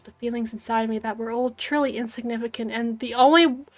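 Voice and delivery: lightly voiced gloomy ghost girl, swelling on revenge; a hint of a vengeful spirit musing at the sea; brooding Spirit voice. Reads Spirit character lines aloud.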